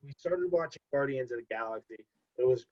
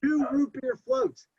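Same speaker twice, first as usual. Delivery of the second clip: incredulous listing; 8 semitones higher than usual. Real, not acted. Listing the huge order.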